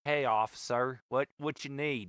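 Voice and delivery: lazy rural Florida drawl; casual Southern drawl, playing innocent; old rural Florida drawl. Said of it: "That's my Florida accent".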